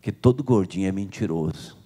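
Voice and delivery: a doctor deadpanning the punchline; doctor's voice. Acted. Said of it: "o médico falou assim". (voz grave e seca do médico)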